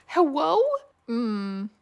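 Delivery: hammed-up drowning plea; mock desperate pleading. A drowning roleplayer begs Mister Obama to save her, in hammed-up panic.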